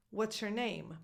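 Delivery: "your" weakened to a quick "yer"; reduced your. Shown as a demonstration. Coach showing learners what they already say, reduced your. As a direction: run it together, "your" as "yer". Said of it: "might pronounce this question like this".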